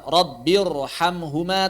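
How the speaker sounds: slow "Rabbirhamhuma" with heavy r; thick r. Shown as a demonstration. Teacher lists examples of thick ra, heavy r. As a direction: thicken both r sounds in "Rabbirhamhuma".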